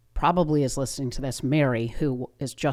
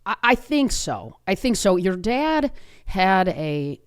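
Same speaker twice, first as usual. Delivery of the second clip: higher, slow, gentle retelling of mom; imitating a calm mother, pitched up; 4 semitones higher, slower than usual. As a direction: break it gently to your child, slowly. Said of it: "she very calmly said".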